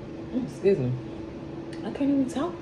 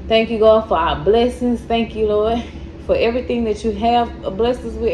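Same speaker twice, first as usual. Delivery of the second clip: prayer. Acted. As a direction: pray earnestly, voice dropping. Says grace before eating.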